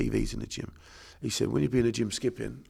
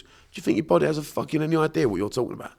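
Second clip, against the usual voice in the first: louder, higher exasperated challenge; exasperated rant; 5 semitones higher, 4 dB louder, faster than usual. Real, not acted. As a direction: demand it with scorn. Ranting about pointless self-talk.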